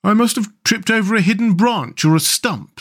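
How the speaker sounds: high, plaintive complaint; miserable. A narrator's reading. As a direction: moan in self-pity, pitched high. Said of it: "said the mole miserably".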